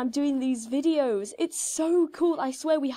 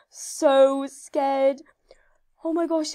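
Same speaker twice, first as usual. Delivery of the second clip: whispering; 4 dB louder, slower than usual. Real, not acted. Anxious moment before levelling up.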